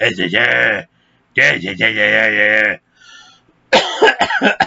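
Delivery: sergeant voice squeezed and strained from the throat. Imitating a sergeant answering a friendly greeting, in a throat-straining sergeant voice. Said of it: "that messes with your throat".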